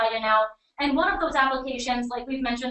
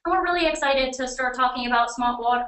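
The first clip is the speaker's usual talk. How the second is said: New England accent, dropped r's; Boston-style New England accent. Real, not acted. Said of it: "Oh, my New England accent came out there".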